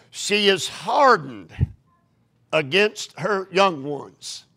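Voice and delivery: slow, careful first reading; slow scripture reading. Shown as a demonstration. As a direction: read it slowly, testing. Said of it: "Am I reading this correctly?".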